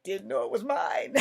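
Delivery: high, loud, breaking into a laugh; real laughter. Real, not acted. Storyteller admitting the smell was theirs, cracking up. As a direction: lose it at your own punchline. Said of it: "get through this without laughing".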